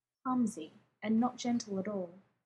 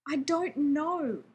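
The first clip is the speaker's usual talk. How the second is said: loud, slow shout; 5 semitones higher, 5 dB louder, slower than usual. A narrator's reading. John shouting at Rodney, loud and slow. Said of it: "John found himself shouting".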